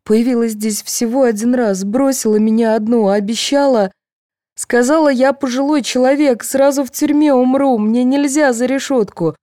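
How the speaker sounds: high, strained distraught voice; sobbing. A narrator's reading. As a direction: pour it out near tears. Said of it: "зарыдала Фёдорова".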